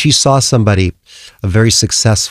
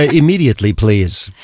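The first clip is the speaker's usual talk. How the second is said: airport announcement. Acted. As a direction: finish off the mock tannoy call. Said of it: "like making an announcement in an airport".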